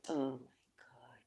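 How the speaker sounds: a soft, slightly hurried whisper, overcome by feeling; emotional whisper. Real, not acted. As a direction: barely breathe the words, as if choked with emotion. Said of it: "I get very emotional".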